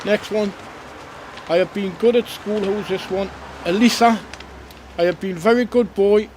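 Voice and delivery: cheery Father Christmas reading letters; Santa voice. Acted. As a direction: read the kids' letters as a jolly Santa. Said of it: "This is Santa back again".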